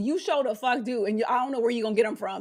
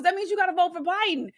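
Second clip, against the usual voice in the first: normal talking voice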